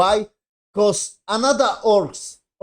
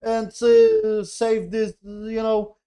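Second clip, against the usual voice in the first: mock pleading character; 5 semitones higher, 3 dB louder, slower than usual. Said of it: "And he was like".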